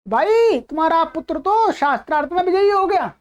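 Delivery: mock calling out. Shown as a demonstration. Teacher acting out news of a son's debate win, mock calling out. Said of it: "चिल्ला करके".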